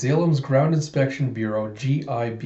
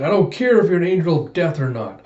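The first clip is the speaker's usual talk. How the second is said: defiant shout; 4 semitones higher, 4 dB louder than usual. Acted. Brawler challenges the cyborg.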